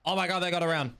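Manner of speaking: loud, high excited scream; shrieking jackpot winner. Real, not acted. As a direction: shriek it like you just won big. Caster sees clutch flank play.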